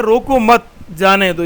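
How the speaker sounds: "रोको मत" as one unit, a pause, then "जाने दो"; pause after मत. Shown as a demonstration. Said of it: "रोको मत के बाद कामा डाल दिया जाए".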